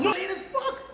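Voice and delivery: high, loud laughing complaint; a retold gripe through laughter; laughing retort. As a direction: laugh it out in disbelief. Laughing retort about late notice.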